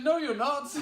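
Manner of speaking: very high, loud mock denial; imitating incredulous lad. Lad refusing to believe the MP's own name, incredulous. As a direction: squeal the contradiction for laughs.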